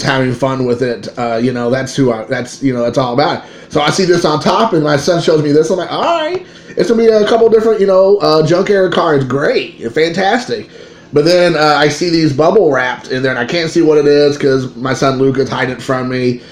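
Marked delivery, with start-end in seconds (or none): 5.9-10.7 mock polite enthusiasm. Retelling his lukewarm expectation.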